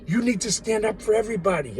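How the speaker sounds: God commanding, loud and high; booming voice of God. Retold or imitated. God ordering him to stand up, booming loud. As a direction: boom it out like God giving orders. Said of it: "God's like".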